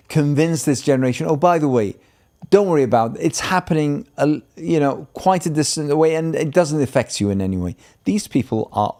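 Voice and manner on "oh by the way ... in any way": higher-pitched, hurried imitation of someone waving it away; mock reassurance. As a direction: lightly mimic a dismissive reassurer. Imagined brush-off to the generation.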